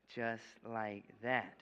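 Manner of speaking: drawn out slowly. Shown as a demonstration. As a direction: let each word land slowly. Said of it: "you show your hand empty".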